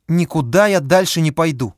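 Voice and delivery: shrill hysterical refusal; hysterical yell. A narrator's reading. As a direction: scream it in hysterics. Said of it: "истерически закричала женщина".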